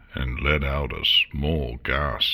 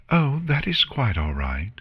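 gentle; 8 semitones higher than usual. A narrator's reading. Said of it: "a gentle smile on her face".

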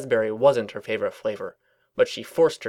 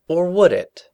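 sneaky; 7 semitones higher, 5 dB louder than usual. A narrator's reading. Sneaky idea.

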